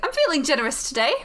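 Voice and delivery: quick put-on British lilt; bad British accent. Voice in the head offers the player a question, lilting British accent. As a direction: grant a favour in hammy British. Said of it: "My horrible British accent".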